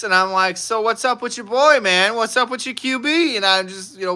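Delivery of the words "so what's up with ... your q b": retold trash talk. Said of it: "I just start trash talking".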